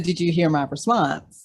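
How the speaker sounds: loud, insistent repetition of the question; firm loud repeat. Real, not acted. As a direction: repeat it firmly so he hears it this time. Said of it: "No, I said".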